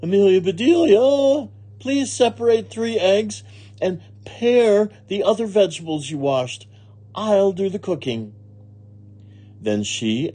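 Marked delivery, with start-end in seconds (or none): 0.0-8.3 high, raised calling voice; Missus Rogers calling out. A narrator's reading. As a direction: call instructions through the house. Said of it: "Missus Rogers called".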